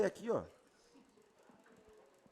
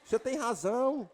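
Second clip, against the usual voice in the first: devil voice; 3 semitones higher than usual. Retold or imitated. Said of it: "O diabo".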